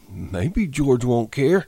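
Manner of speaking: a big simple man mourning his pup; Lenny, grieving. Acted. Lenny talks sadly to the dead pup.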